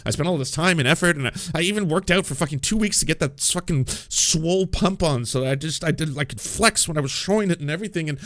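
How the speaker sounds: a hammed-up betrayed dude; hurt guy. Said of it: "Wouldn't you be like".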